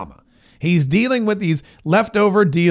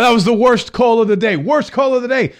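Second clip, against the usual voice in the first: Trump impression; 6 semitones higher than usual. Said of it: "Donald Trump".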